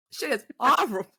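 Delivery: laughing it out. Real, not acted. Laughing repeating horrible.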